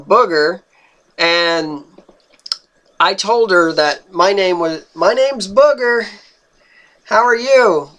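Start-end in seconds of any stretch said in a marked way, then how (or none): 4.9-7.9 friendly introduction. Retold or imitated. Introduces himself to hard-of-hearing lady.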